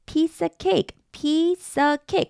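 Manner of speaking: "of" swallowed, piece-a-cake in one breath; dropped of. Shown as a demonstration. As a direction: slur "Piece of cake" so the f vanishes. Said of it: "of를 발음 안 했네요".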